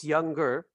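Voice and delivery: "younger" with a hard G after the ng; "younger" said as young-ger; pronounced G. Shown as a demonstration. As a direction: sound the G clearly in "younger". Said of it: "esta G sí se pronuncia".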